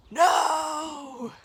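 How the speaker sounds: loud high defiant "No!"; cheeky no. Acted. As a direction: refuse with a grin. Ned's final refusal.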